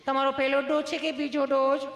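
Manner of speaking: nurse voice. Retold or imitated. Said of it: "nurse બેને સહજતાથી એટલું પૂછ્યું".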